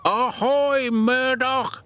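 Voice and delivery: high, loud ahoy shout; old dock engine hailing the newcomer loudly; hearty shout. Acted. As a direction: hail him like a sailor. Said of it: "shouted Salty".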